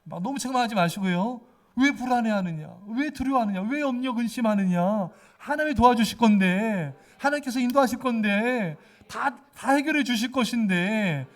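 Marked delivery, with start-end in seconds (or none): 1.8-11.3 louder, firm rebuke of your own soul; pious rebuke. Shown as a demonstration. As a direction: scold yourself kindly but firmly. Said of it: "경건한 책망해야 돼요". (경건하게 자신을 책망하듯 크게)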